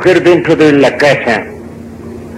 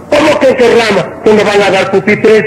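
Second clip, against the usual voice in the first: higher-pitched baffled protest; acted incredulity; 5 semitones higher than usual. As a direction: play the puzzled applicant objecting. Joke character protests at secretary. (incredulidad fingida, tono agudo)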